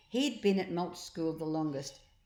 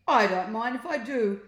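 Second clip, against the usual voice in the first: creature voice; 4 semitones higher, 8 dB louder than usual. A narrator's reading. Sloctopus answers Ned.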